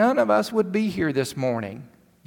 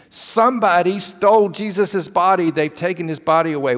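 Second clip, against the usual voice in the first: urgent, louder rush of bad news; breathless news; 4 semitones higher, 6 dB louder than usual. Mary bursting in on the disciples with alarming news. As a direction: blurt it out to the frightened friends.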